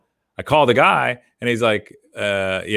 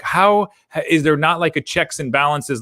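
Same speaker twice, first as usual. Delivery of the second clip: retold exasperation, pitched higher; frustrated; 6 semitones higher than usual. Traveler recounting botched food deliveries, frustrated. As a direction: ask it in frustrated disbelief. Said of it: "I was just so frustrated".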